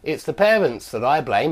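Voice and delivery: "parents" emphasised early, with a rising end; stress on PARENTS. Shown as a demonstration. Teacher showing what the it cleft emphasises, stressing "parents". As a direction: put the weight on "parents". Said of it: "The it cleft emphasises this information".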